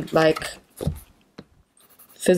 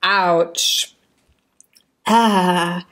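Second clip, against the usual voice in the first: burned tongue. Real, not acted. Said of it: "and I just burned my tongue".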